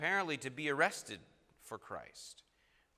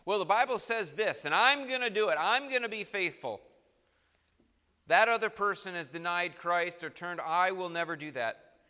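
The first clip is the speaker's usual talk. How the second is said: louder, higher, cocky vow; confident resolution; 4 semitones higher, 6 dB louder than usual. Retold or imitated. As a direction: brag about your own faithfulness. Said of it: "What ambition do you have?".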